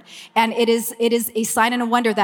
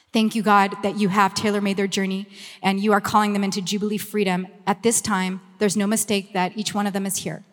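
prayer. Acted. Leader praying over everyone in the room, earnest prayer. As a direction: pray it over them, steady and earnest.

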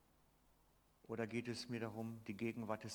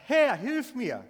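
much higher and louder, a panicked shout; desperate cry for help; 11 semitones higher, 16 dB louder, slower than usual. Acted. Peter sinking in the lake, calling to Jesus: panicked loud cry. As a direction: cry out as if sinking beneath the waves. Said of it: "und schreit".

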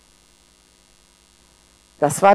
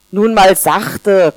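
correcting; much slower than usual. Acted. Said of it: "korrigierte ein Salzkorn".

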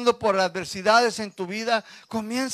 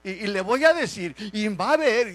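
higher, quick mock-upset rant; niece's angry rant; 5 semitones higher, 4 dB louder than usual. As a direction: imitate the fuming niece, rushing. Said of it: "Y luego dice".

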